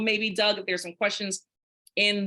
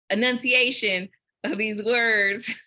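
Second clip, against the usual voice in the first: slow, carefully pronounced "enunciation of these words"; 3 dB louder, slower than usual. Shown as a demonstration. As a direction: spell out each syllable of "enunciation" slowly and deliberately. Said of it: "you get to critique me and my".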